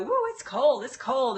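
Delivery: a light, laughing gasp at cold water; mock shiver. Dipping toes in cold water, a light mock shiver. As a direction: toes into a cold kiddie pool, hammed-up. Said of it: "you need to go".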